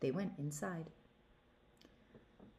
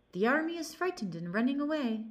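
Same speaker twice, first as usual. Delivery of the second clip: higher, louder call from a tree; 7 semitones higher, 5 dB louder than usual. Acted. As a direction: announce the false retreat loudly. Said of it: "cried out to the frogs".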